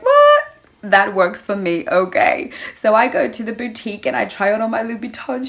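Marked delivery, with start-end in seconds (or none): 0.0-2.5 mock surprised. Delighted reaction to free shoes.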